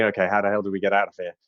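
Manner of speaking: high fast fussing granny voice; sweet old lady. Acted. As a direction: fuss over the old fellow in a high quick voice. Kettlestein voiced, flustered.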